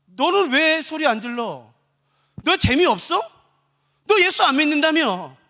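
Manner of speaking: mildly acted accusing challenge. Spectator challenging an apostate who stays silent, accusing. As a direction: needle them with suspicion.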